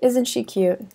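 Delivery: high cooing "Aw, isn't she cute?". Shown as a demonstration. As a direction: coo over a baby. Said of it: "E N says aw, like".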